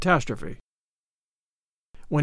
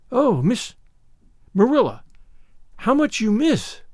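put-on higher child voice, marvelling; amazed pity; 5 semitones higher than usual. Anne pities unimaginative Marilla, amazed. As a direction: lament it with mild, earnest wonder.

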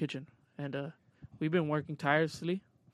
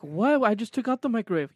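incredulous; 6 semitones higher, 8 dB louder than usual. Retold or imitated. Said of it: "And I was like".

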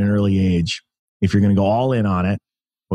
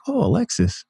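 higher, lispy boxer voice, badly done; a playful, hammed-up imitation of a famous boxer; Mike Tyson impression; 10 semitones higher than usual. Champion greeting the young man, in a higher mock boxer voice. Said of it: "that's my terrible Mike Tyson impression".

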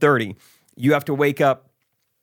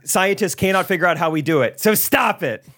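mock chipper lecture; 4 semitones higher than usual. Mock agent lecturing on yawns.

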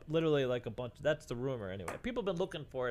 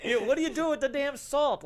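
high, loud, laughing through the words; laughing disbelief; 10 semitones higher, 5 dB louder than usual. Real, not acted. To the dealer with the salt, laughing disbelief.

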